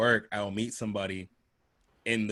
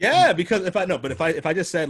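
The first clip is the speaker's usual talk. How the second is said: loud protest; 8 semitones higher, 8 dB louder than usual. Real, not acted. Defending himself after laughter.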